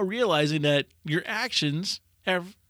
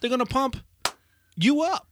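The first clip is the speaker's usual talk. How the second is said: much higher, bouncy strongman catchphrase; Hans and Franz; 10 semitones higher than usual. Retold or imitated. Host quoting the SNL strongmen to cohost, hammed-up. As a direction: ham up the bodybuilder catchphrase. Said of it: "It's Hans and Franz".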